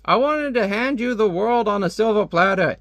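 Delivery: a shocked father hearing his own daughter turned on him. Retold or imitated. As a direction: voice shoots up in betrayed disbelief. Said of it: "he's really shocked".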